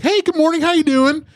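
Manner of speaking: white voice. Retold or imitated. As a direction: put on a chirpy white guy phone voice. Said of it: "Oh, your white voice".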